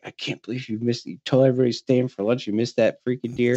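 quick, mildly heated self-scolding; mock-angry rant at yourself; retold anger. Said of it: "so angry".

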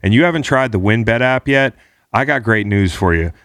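upbeat sponsor read; punchy ad read; hyped betting ad. Acted. Host reads sponsor ad.

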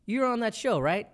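high, loud excited stranger with a laugh; imitating a fan. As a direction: play the fan who recognizes you on the street. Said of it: "he goes".

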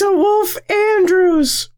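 high, slow falsetto; put-on girl voice. Introducing the new persona in a girl voice. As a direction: stretch the name out in a girlish squeak. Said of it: "I'm a girl now".

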